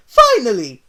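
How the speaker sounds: loud, high Italian cheer; Mario grabs his game, loud cheer. Acted. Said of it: "he cheered".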